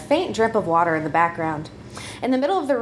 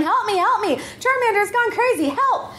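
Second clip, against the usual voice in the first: high frantic calls for help; yelling for help; 10 semitones higher than usual. Acted. Pikachu calling to her friends, high frantic yell for help. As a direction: cry out for rescue, voice climbing. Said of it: "she started yelling".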